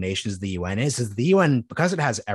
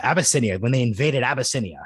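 1930s announcer voice; 3 semitones higher than usual. Pretend. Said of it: "in my nineteen thirties announcer voice".

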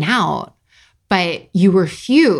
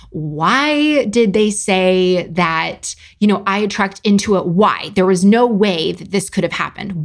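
contemptuous questioning. Acted. Reading out her spiralling thoughts, theatrical contempt. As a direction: play up the repeated whys with scorn. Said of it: "leading with contempt instead of curiosity".

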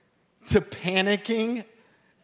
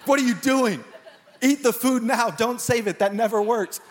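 mock critiquing; 5 semitones higher than usual. Yelling at survival show contestants.

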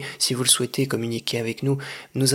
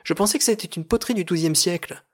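quick, higher-pitched surprise; surprised exclamation; 5 semitones higher, faster than usual. Acted. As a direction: blurt out puzzled disbelief. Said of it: "s'écria Jean Syracuse".

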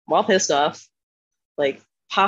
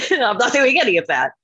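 put-on higher, insistent repeat of a kid's refusal; high-pitched refusal; 6 semitones higher, 3 dB louder than usual. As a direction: pitch it up in playful defiance. Repeats her childhood refusal, higher.

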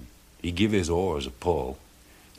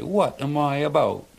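higher, bewildered fisherman voice; puzzled fisherman; 6 semitones higher than usual. A narrator's reading. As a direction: wonder aloud, dazed. Charlie wakes confused.

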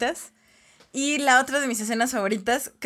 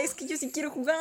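put-on secretive child; 3 semitones higher, 9 dB quieter than usual. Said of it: "le dice en secreto a William".

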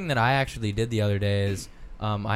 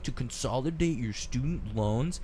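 robocall voice; 3 dB quieter than usual. Retold or imitated.

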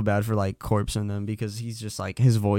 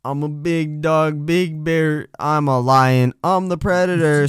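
Tony Lopez; 2 semitones higher, 5 dB louder, slower than usual. Acted. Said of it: "you know, Tony Lopez casually".

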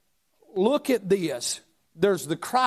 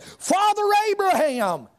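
rich man crying out. Acted. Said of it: "he cried and said".

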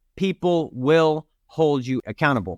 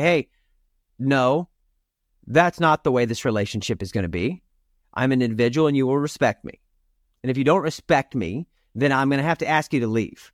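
firm, calm, lower voice; firm stand; 4 semitones lower than usual. Pretend. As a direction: set a boundary, steady and low. Standing up to someone.

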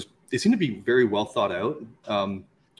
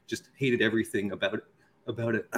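slightly hoarse, losing voice; 4 dB quieter than usual. Real, not acted. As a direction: talk through a sore throat. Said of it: "I'm losing my voice a little bit".

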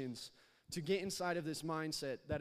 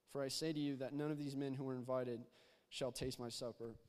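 measured, even Bible reading aloud; scripture reading. Acted. Preacher reading Luke to the congregation, measured scripture reading. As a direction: read the parable steadily to the congregation.

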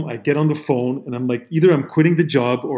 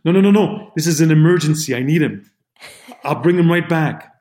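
louder, higher mock insistence; retold urgent interruption; 3 semitones higher, 5 dB louder than usual. Actor grabbing the driver for an emergency, imitated urgent insistence. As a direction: act out cutting in forcefully.

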